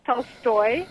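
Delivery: Tolstoy with stress on the second syllable, stoy; Russian pronunciation. Shown as a demonstration. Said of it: "That accent falls on the second syllable".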